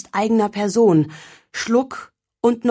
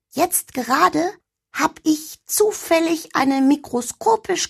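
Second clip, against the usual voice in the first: high, cheeky little elf; 7 semitones higher than usual. Acted. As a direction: play the lazy elf girl, high. (hohe freche Wichtelstimme)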